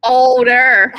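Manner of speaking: laughing out the word. Real, not acted. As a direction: laugh it back in disbelief.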